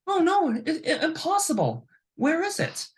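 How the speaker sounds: very high-pitched put-on protest of innocence; mock denial. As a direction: play a cheat acting baffled. Acting the guy denying the money.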